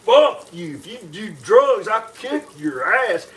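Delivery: loud belligerent rant; belligerent drunk. Acted. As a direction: bark threats at the class. Gym teacher yells threats.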